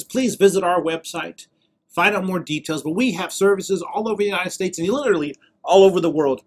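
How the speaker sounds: recorded outro read; promotional announcement. Real, not acted. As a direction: invite viewers along like a ministry promo. Recorded invitation to healing services.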